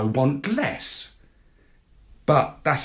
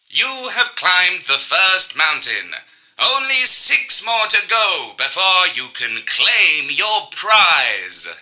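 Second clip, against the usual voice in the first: console announcer; 5 semitones higher, 5 dB louder than usual. A narrator's reading. Console voice declares.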